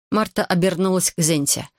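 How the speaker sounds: plain reading voice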